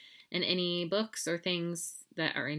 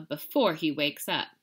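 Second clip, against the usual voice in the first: ordering; 4 dB louder than usual. Acted. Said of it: "ordered Mama".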